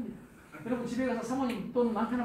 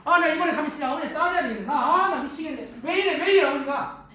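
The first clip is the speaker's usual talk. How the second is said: mock exasperation; 3 semitones higher, 7 dB louder than usual. Husband play-acts siding against his mother.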